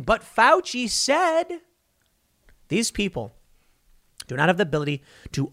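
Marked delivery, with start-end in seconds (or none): 0.0-1.6 very high, slow whining mock yell; mock whiny yell. Two arguing believers mock yelling at each other with whining. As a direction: whine it like a stubborn child. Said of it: "they both start screaming".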